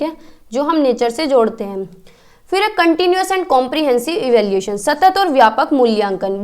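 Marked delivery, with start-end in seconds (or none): 2.8-6.4 slow, each word set apart for notes; slow, spelled-out term. Shown as a demonstration. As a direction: dictate the term slowly so students can write it. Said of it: "बहुत ही important topic है।".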